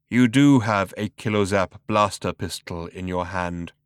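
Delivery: cold, slow, cultured rasp; raspy robot voice. Acted. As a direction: ancient lifeless machine, unhurried. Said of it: "a cultured rasp to it".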